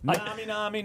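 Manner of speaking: mock imitation of a Nigerian girl; Nigerian accent. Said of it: "What did that sound like?".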